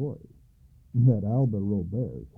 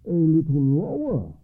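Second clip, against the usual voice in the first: a firm, raised order; 7 semitones higher, 6 dB louder than usual. A narrator's reading. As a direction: command it from the boat. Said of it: "Alba ordered the fisherman".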